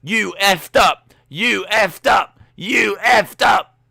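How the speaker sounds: loud, high, slow taunting chant; hammed-up crowd yelling, high and slow; mock crowd shout. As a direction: jeer like a hyped crowd. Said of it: "the crowd are going".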